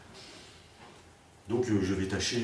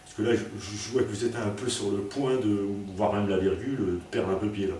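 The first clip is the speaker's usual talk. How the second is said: mock reply. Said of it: "j'avais presque envie de lui dire".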